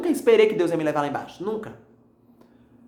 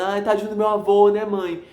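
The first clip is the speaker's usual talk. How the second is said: higher, pleading voice of grief; a touch of a sob in a raised voice; retold tearful plea; 3 semitones higher, slower than usual. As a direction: relive crying over grandpa to mom on the phone. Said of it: "eu comecei a chorar com minha mãe".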